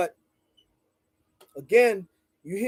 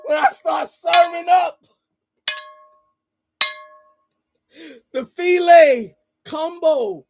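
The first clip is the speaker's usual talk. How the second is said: higher, louder preacher-like build; loud theatrical boast; hammy stage actor; 8 semitones higher, 6 dB louder than usual. Acted. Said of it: "Pardon the theatrics".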